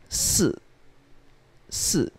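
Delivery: Si as a soft long S with a short falling buzz, no ee; just the S. Shown as a demonstration. Teacher showing the unread I, Si said as mostly S. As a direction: say Si softly as S with a falling tail. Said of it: "basically it's just S".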